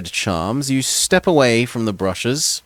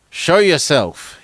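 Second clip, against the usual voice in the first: a slow, raised call from the horseman; guard shouts the challenge, slow and forceful; shouting; 5 semitones higher, 3 dB louder, slower than usual. Acted. Horseman calls to a hidden stranger, shouting. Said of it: "he shouts in reply".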